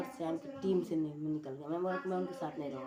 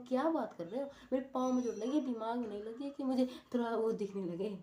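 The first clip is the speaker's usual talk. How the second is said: raised, higher pitched indignant protest; indignant retort; 5 semitones higher than usual. Retold or imitated. Boy protests to teacher his foot, not head, is hurt, indignantly. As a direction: push back hard, mock-outraged. Retold arguing back at teacher.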